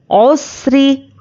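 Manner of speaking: drawn-out Quranic recitation of औसरी with full vowels; slow recitation. Shown as a demonstration. Teacher shows students the word, slow chanted recitation. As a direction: chant औसरी slowly and evenly, each sound held.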